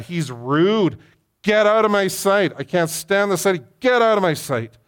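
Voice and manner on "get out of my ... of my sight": higher, louder furious dismissal; angry shout. Retold or imitated. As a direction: throw him out in fury. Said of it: "he's mad".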